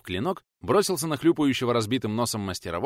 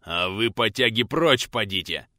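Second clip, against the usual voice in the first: snarling; 4 dB louder, slower than usual. Acted. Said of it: "зло оскалился бородач".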